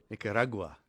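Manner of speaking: Nicaragua as "nicka-RAH-gwa", open middle vowel; Spanish-style Nicaragua, stressed "RAH" in the middle. Shown as a demonstration. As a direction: model Nicaragua with emphasis on "ra". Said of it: "You put the emphasis on the ra".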